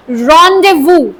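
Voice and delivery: rendezvous as RON-day-voo, silent z and s; teacher giving rendezvous as RON-day-voo, no z; correct rendezvous. Shown as a demonstration. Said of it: "it is pronounced as".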